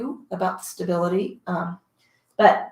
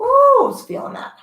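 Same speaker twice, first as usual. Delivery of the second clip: laughing; 5 dB louder than usual. Real, not acted. Laughing after hard set.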